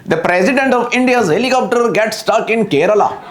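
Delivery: mock Indian English accent with "president" as prezi-ḍent and "helicopter" as helicop-ṭer. Pakistani comedian jokes about the Indian president in a mock Indian accent. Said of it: "I just get this accent".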